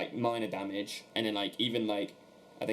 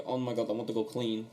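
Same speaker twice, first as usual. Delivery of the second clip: imitating a Portuguese accent in English; lightly put-on Portuguese accent, as a joke. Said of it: "need to do a Portuguese accent".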